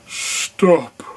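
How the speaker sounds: high, loud sudden shout; giant shouting. Acted. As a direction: yell it to cut the music. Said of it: "Then he shouted".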